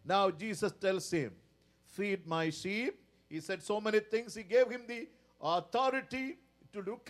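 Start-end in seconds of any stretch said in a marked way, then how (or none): 1.8-3.0 soft, slow and lower; gentle command. Acted. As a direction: say it tenderly as Jesus. Jesus' command voiced softly.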